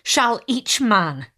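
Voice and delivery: crying out. Acted. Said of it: "cried he".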